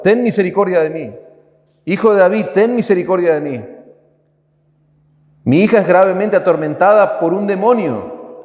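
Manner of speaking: high, pleading outcry; desperate cry for mercy. Retold or imitated. Preacher voicing the mother crying to Jesus, high desperate outcry. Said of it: "ella está clamando".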